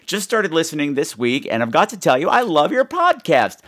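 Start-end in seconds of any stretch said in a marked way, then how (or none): 2.3-3.6 gushing fan. Retold or imitated. Reading fan email.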